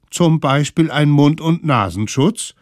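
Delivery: put-on loud bossy kid voice; bossy kids' voice. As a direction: lecture him like bossy little kids. Kids lecture mammoth.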